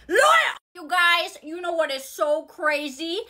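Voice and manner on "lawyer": high, loud indignant cry; calling out. Acted. Girl caught in a lie, calling out loudly. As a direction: yell out for legal help.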